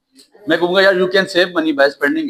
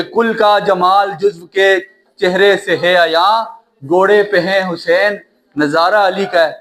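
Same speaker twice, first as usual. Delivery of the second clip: slow, measured verse reading; slow verse with a pause after each phrase; poetry recitation; slower than usual. Acted. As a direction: recite an Urdu couplet phrase by phrase.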